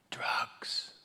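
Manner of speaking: breathless gossip whisper. Retold or imitated. Dinner guest whispering about the doctor's son. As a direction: hiss it so nobody hears. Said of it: "Whispers the word drugs".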